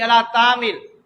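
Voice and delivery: "علی طعام" run flat as ala taam without ain; mispronounced recitation. Retold or imitated. Teacher laments the lost letter, "علی طعام" said wrongly. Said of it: "وہ تو چلی گئی".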